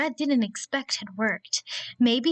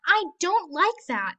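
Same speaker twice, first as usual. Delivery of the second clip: small wolf protest; 7 semitones higher, 4 dB louder than usual. Acted. Bitty protests to bully.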